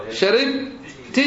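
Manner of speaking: slow sharibti with -ti ending; second person feminine ending. Shown as a demonstration. Teacher conjugating with students, slow sharibti. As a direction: draw out sharibti. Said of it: "المخاطبة".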